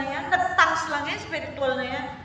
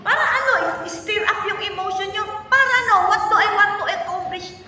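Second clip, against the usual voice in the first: emphatic preaching; 4 semitones higher, 6 dB louder than usual. Real, not acted. Preacher challenging the congregation.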